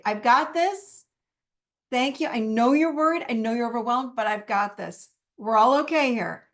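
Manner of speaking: calm, reassuring talk to your own worry; self-compassionate adult voice. Shown as a demonstration. Speaker demos her adult voice calming the ego, reassuring. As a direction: soothe the inner critic gently but firmly. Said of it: "So I'll say".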